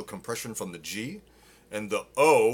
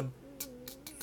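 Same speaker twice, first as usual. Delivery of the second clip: stuttered d; 3 semitones higher, 14 dB quieter, much faster than usual. Shown as a demonstration. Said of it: "otherwise you stutter".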